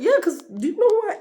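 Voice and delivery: high, loud, breaking into laughter; laughing diva line. Retold or imitated. Mocking herself as a diva, laughing. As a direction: play the diva then crack up. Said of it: "that sounds crazy".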